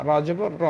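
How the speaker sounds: teacher showing a short "র"; short vowel demo. Shown as a demonstration. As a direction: end on a brief "র", not stretched. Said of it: "তাড়াতাড়ি পড়তে হবে".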